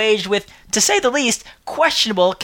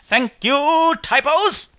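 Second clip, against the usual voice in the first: sarcastic thanks; 7 semitones higher, much slower than usual. Real, not acted. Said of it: "did not randomly need to be inserted".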